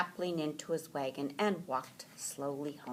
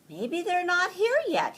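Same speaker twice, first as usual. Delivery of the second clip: Franklin's hopeful thought; 14 semitones higher, 5 dB louder than usual. A narrator's reading. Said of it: "he thought".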